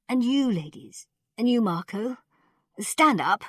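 put-on high, thin old man commanding; old ruler's order. A narrator's reading. Khan telling ladies and Marco to rise, high old voice.

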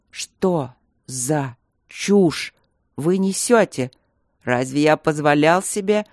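icy, slow and menacing. A narrator's reading. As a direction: drag out every word, ice-cold. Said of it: "Тон его стал ледяным".

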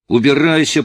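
tearful shout. A narrator's reading. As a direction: burst out through tears. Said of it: "Слова его потонули в рыданиях".

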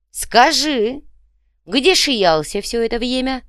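nasty sneer. A narrator's reading. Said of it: "Нехорошо улыбнулся Копыто".

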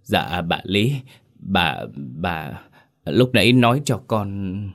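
faltering, broken repeats; old woman stuttering in dread; stammering fear. Acted. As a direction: stammer it out, trembling. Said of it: "run lên lắp bắp".

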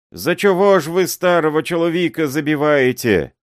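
high, loud desperate pleading; old man wailing. A narrator's reading. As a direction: beg and wail, voice up high. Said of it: "этот воющий голос".

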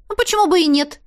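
businesslike reply. A narrator's reading. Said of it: "ответила деловито".

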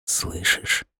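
breathy hushed whisper. A narrator's reading. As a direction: whisper it, listening hard. Hedgehog listening with eyes closed.

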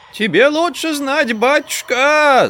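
high, slow put-on old woman's whine; artificial whine. A narrator's reading. Old granny answering the doctor in a put-on high whine. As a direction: whine it falsely, drawing out батюшка. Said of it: "искусственным голосом".

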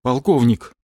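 weary, resigned call; a tired pilot calling the colonel. Acted. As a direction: say it like you've had enough. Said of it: "усталым голосом произнес Гера".

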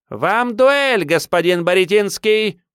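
put-on very high, loud freak-baby taunt; squeaky shout. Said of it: "Крикнув это". (писклявый крик уродца)

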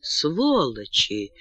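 plain reading voice

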